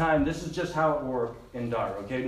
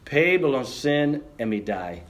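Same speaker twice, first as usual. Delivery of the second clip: slow, deliberate Pidgin verse; Pidgin recitation; 2 semitones lower, slower than usual. Shown as a demonstration. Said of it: "In Pidgin, we say it like this".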